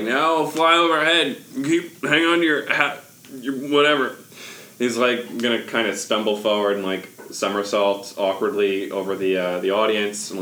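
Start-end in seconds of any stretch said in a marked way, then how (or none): 0.0-4.2 put-on overbright kids party host. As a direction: stumble in then sell the magic. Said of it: "be like".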